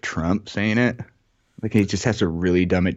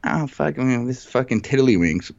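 mock purist; 6 semitones higher than usual. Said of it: "all the purists are gonna be like".

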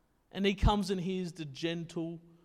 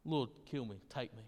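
much softer, low, drained plea; weary despair; 9 semitones lower, 11 dB quieter than usual. Retold or imitated. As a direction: sag into a hopeless murmur. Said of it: "this exhaustion, this depression".

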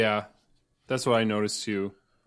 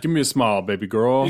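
catcalling; 6 dB louder than usual. Pretend. Mocking a catcaller.

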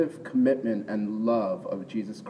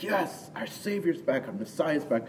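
excited; 7 semitones higher than usual. Retold or imitated. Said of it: "Peter's just excited".

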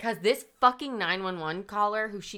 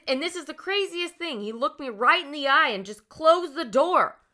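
distraught social worker; 6 semitones higher, 5 dB louder than usual. Retold or imitated. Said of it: "she's very, like, distraught".

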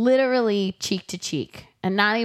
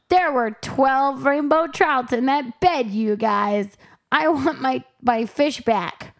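higher, slow whiny Pete; lightly voiced complaining Pete; imitating Pete; 6 semitones higher, slower than usual. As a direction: plead like a fussy old man.

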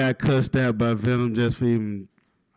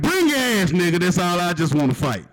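mock fight challenge; 5 semitones higher than usual. Comedian daring the bill collector to fight, hammed-up. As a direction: dare him to come fight. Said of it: "I said".

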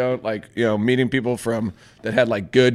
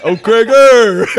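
excited greeting; 10 semitones higher, 13 dB louder, much slower than usual. Retold or imitated. Greeting a friend.

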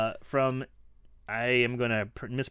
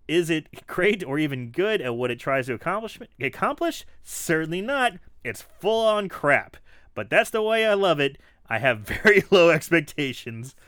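louder, higher mock reading; reading a review aloud; 4 semitones higher, 6 dB louder than usual. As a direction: build it up like a rant. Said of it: "Ian Zantz".

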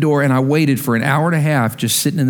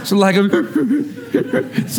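laughing at himself; 9 semitones higher, much slower than usual. Real, not acted. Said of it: "I'm crying".

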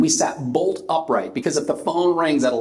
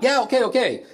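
high, resigned tipsy okays; the drunk caller gives in, high; giving-in drunk; 10 semitones higher than usual. Retold or imitated.

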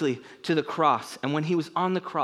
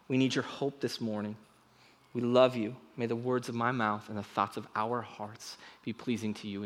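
prayer; 2 semitones lower than usual. Acted. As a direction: pray humbly before the people. Leads a prayer.

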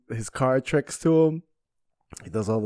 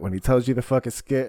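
normal talking voice

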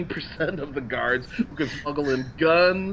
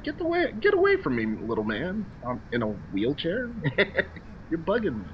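mock brush-off; 2 semitones higher than usual. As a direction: sneer like an annoyed star shooing a fan. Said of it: "it was like".

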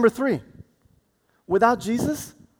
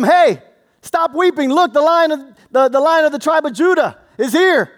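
angel speaking. Retold or imitated. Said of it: "when the angel told him".

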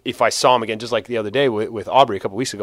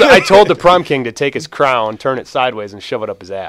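wrestling promo; 3 semitones higher, 8 dB louder than usual. Retold or imitated. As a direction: growl it like a heel cutting a promo. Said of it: "I cut a promo".

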